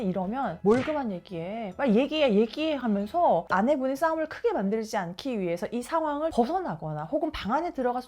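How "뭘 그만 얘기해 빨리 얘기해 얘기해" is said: acted pushy demand, rising and louder; insistent pressing. Retold husband refusing to let wife drop it, insistent. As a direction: press impatiently, imitating a nagging husband.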